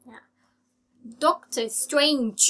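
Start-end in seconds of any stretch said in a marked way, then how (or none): 1.2-2.4 "Doctor Strange", slow, STR cluster and friction ending; released final J. Shown as a demonstration. Teacher repeats for learners, slow clear final sound. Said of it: "มีเสียง จ".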